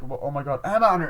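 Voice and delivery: rising into a high, loud mock shriek; horrified cry. Retelling friends finding Emma, mock horrified cry. Acted discovery of body.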